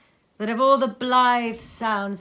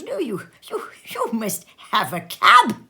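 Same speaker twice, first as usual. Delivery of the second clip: chuckling whisper; 3 semitones higher, 7 dB louder than usual. A narrator's reading. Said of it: "The chuckle with which he said this".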